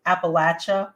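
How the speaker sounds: Appalachia said as appa-LATCH-uh; short a and a ch in Appalachia; preferred local pronunciation. Shown as a demonstration. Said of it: "really the way that you want to pronounce".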